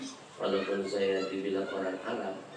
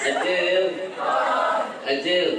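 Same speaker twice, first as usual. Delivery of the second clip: calling out; 8 semitones higher, 10 dB louder, slower than usual. Real, not acted. Calling out to Acil.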